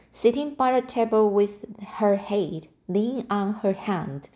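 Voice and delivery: steady read-aloud storytelling; story narration. A narrator's reading. Reading a novel chapter aloud to listeners, calm narration.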